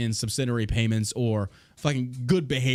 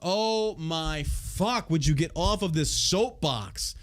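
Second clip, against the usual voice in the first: exasperated; 2 semitones higher, slower than usual. Real, not acted. Disbelief while reading.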